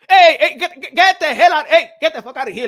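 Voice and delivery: hammed-up laughing get out; Canelo's shout. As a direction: throw him out like Canelo. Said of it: "like Canelo Álvarez say to".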